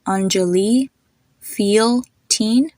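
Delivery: put-on "Anjali, feel, teen" one by one, same ee; matching EE sounds. Shown as a demonstration. Teacher having listeners hear the ending, long EE in all three. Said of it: "same thing".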